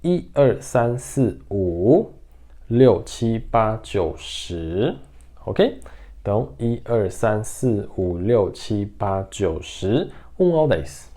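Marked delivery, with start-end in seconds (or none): 0.0-5.0 numbers run together in quick groups; quicker recital of the number list; faster count. Shown as a demonstration. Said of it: "De forma mais rápida agora". 6.6-10.1 brisk, connected run through the numbers; quick, lower-key number recital; faster count. Shown as a demonstration. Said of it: "De forma mais rápida agora".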